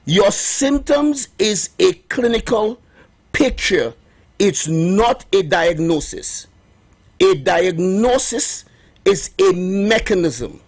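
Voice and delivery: slow, heavy emphasis on every phrase; underlined, slow. Shown as a demonstration. Host underlining his point for listeners, slow and heavy. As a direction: underline each word with a pause. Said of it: "I'm gonna underline this".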